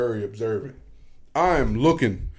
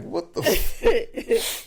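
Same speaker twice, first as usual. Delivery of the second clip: slow, breathy, higher half-whisper; stunned disbelief; 12 semitones higher, much slower than usual. Retold or imitated. Reacting to leaving after midnight, slow breathy disbelief. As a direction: let the disbelief trail off.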